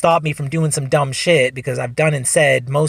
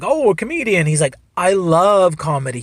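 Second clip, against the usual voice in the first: delighted interest; 4 semitones higher, 3 dB louder than usual. Retold or imitated. Cop delighted to meet a comedian.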